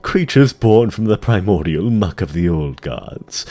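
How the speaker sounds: lightly voiced, measured demon courtier; sly dreadlord. Tichondrius reporting to the Lich King, lightly voiced sly demon. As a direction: purr it with mocking deference.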